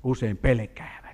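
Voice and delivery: hushed, breathy aside; whispering that small children get scared. Acted.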